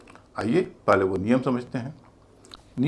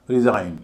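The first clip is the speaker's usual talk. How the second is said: "रिजाइन" with a light "री" and loud, heavy "जाइन"; stress on second syllable; 2 semitones lower, 5 dB louder than usual. Shown as a demonstration. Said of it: "जाइन भारी है". ("रिजाइन" में "जाइन" भारी, "री" हल्का)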